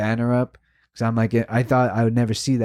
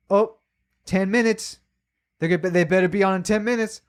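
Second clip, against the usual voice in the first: higher, whiny mock of her countdown; mocking impatient woman; 7 semitones higher than usual. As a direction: mimic her nagging about the clock, pitched up.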